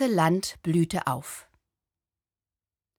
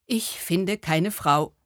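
mild sob; slower than usual. Acted. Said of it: "schluchzte er".

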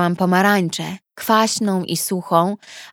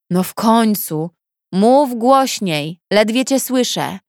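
brash neighbour calling; 2 semitones higher than usual. Acted. Neighbour calls through wall.

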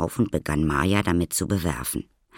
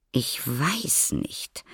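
slow, higher, hesitant; doubtful; 8 semitones higher, much slower than usual. A narrator's reading. Mother answering her husband at night, doubtful. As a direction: draw it out with doubt.

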